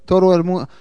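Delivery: slow, drawn-out, booming announcer; lucha libre announcer. Pretend. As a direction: announce it like a wrestling ring. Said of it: "why I'm talking in Spanish".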